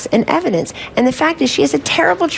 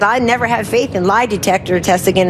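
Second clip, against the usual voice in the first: mock Arkansas accent. Mocking Hillary's giggle on the tape, in a lightly put-on Arkansas accent. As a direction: imitate her Arkansas accent, half in jest. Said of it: "in her Arkansas accent".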